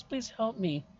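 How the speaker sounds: put-on high, scared ghost girl begging; frightened pleading. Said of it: "She looks back to you and goes".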